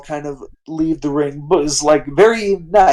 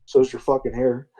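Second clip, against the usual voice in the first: scolding, pitched up, building; scolding rant; 2 semitones higher than usual. Retold or imitated. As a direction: scold them like a fed-up boss. Stone Cold scolding wrestlers.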